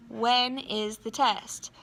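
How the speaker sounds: slow, word by word, for copying down; slow dictation. Shown as a demonstration. Teacher dictating the question to the class, slowly. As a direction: spell it out slowly so they can write.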